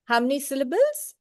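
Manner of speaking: normal talking voice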